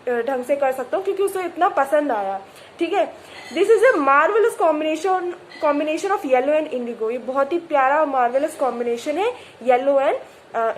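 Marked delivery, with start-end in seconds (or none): 3.6-7.1 slow, deliberate reading aloud; measured textbook reading; story reading. A narrator's reading. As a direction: read the novel line carefully. Reads story text slowly.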